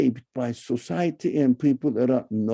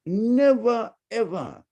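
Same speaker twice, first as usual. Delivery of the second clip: usual speaking voice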